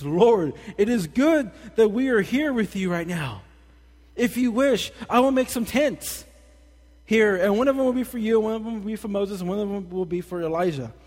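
high, loud, eager voice of Peter; excited Peter. Retold or imitated. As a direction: gush about the tents like an excited Peter. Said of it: "Peter said to Jesus".

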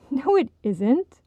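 slow, amused denial with a laugh. Acted. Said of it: "Audrey laughed".

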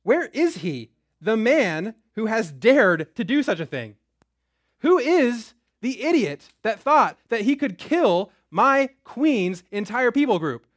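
outraged king. Acted. King raging at whoever plotted against his queen's people. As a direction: spit out every word like a furious monarch.

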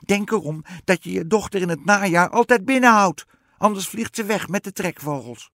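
high, loud witch warning; piercing storybook witch call; witch calling after. A narrator's reading. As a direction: shout a warning after someone leaving. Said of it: "riep de heks haar achterna".

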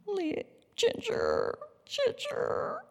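put-on high, soft child's voice calling the dog's name through tears; a small girl frozen in shock, whispering her dog's name; tearful little girl. A narrator's reading. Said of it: "as the tears ran down her cheeks".

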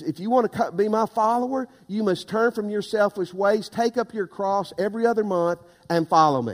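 deadpan misquote with every other month said as if it were scripture; deliberate misquote. Shown as a demonstration. Pastor testing the congregation with a fake verse, deadpan. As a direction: slip in every other month as if it were the real verse, then finish loud. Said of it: "Is that what it says?".

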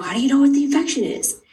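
high-pitched incredulous question; retold astonishment. Mother recalling her reaction to the doctor's talk, astonished. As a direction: voice jumps up as if baffled.

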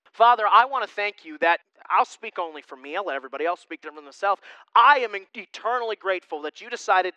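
earnest pulpit prayer, rising and falling. Acted. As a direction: pray it aloud for the whole church. Leads closing prayer.

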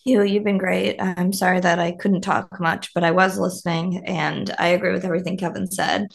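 hoarse, barely there voice; speaking with a lost voice; raspy whisper. Real, not acted. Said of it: "I'm sorry I have no voice".

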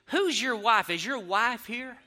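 high-pitched, imitated confrontation; mock indignant challenge. Angry mother demanding to see his wife, mock indignation.

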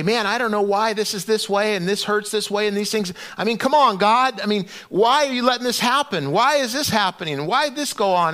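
pleading complaint. Acted. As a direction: act out questioning God in frustration. Voicing people's complaint to God.

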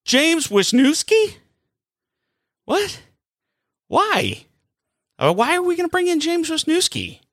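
can't believe the trade, ask it high and baffled; incredulous. Real, not acted.

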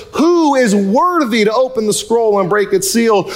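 measured, lightly projected proclamation; proclaiming angel. Acted. Preacher voices an angel's challenge to heaven, proclaiming. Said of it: "proclaim with a loud voice".

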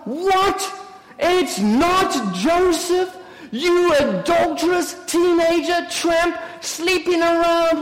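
high-pitched incredulous tirade; scandalised outrage. Acted. Sister berating Mary on hearing of another man, scandalised outrage. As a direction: throw it back in disbelief and berate her.

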